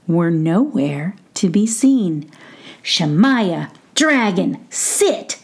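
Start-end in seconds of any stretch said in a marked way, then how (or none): 2.8-5.4 firmest voice. Acted. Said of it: "in his firmest voice".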